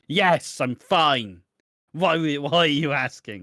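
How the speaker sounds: high, loud, too-quick insistence she's fine; mock defensive denial. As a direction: brush off the question a bit too brightly.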